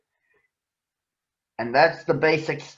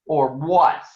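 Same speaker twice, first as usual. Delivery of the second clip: louder sneering challenge; 3 semitones higher, 5 dB louder than usual. Acted. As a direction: sneer it down at him. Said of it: "sneered Too Tall".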